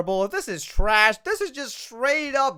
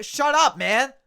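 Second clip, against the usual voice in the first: louder, higher, fed up; fed-up shout; 3 semitones higher, 4 dB louder than usual. Real, not acted. Fan yelling at the commentator, fed-up shout. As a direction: snap back at the TV.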